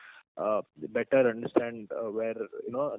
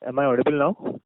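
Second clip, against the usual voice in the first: raised-volume sound check, rising at the end; louder; 3 semitones higher, 7 dB louder than usual. Real, not acted. Caller asked by the operator to speak up, now louder. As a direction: speak up clearly over the line. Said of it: "Can you speak a bit louder".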